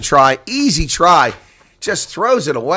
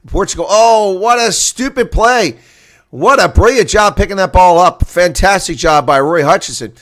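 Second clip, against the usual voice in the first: higher and louder, a sudden burst; excited call; 4 semitones higher, 7 dB louder than usual. Real, not acted. Commentator reacting live to a sloppy pickup, excited. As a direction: jump up for the play. Live rugby play-by-play moment.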